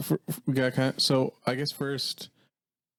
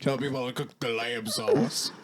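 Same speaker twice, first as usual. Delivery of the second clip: Dave Ramsey voice. Acted. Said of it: "you gotta be thinking".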